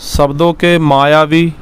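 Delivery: slow, word by word so students can write; slow dictation. Shown as a demonstration. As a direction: dictate the point slowly. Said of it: "second लिखेंगे बेटा".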